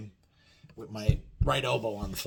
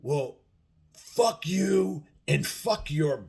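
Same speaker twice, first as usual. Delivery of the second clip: mocking drunk guy; 5 semitones higher, much slower than usual. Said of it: "he's like".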